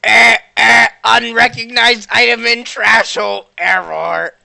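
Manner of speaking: robot voice. Acted. Omega the robot car speaks.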